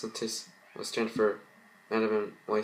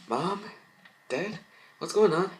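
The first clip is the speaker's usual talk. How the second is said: put-on worried child; 10 semitones higher than usual. Girl sees worried parents.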